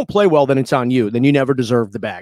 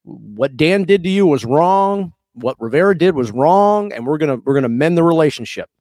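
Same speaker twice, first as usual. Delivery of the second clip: conciliatory owner. Retold or imitated. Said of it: "extend an olive branch and say".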